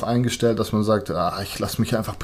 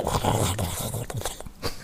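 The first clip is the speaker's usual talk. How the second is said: fryer sizzle noise; 9 dB quieter than usual. Shown as a demonstration. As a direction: imitate oil frying. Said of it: "dann mach ich halt so".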